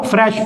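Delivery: short e in "फ्रेश"; short vowel. Shown as a demonstration. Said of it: "short sound". ("फ्रेश" में छोटा ए)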